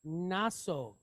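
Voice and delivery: "nasog" as "nah-sog", long O; pronunciation demo. Shown as a demonstration. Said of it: "So we have".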